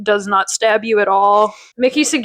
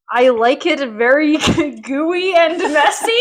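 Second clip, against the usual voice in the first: slow, hammed-up Italian accent, higher; mock Italian; 5 semitones higher than usual. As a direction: drawl it like a fake Italian. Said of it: "he says".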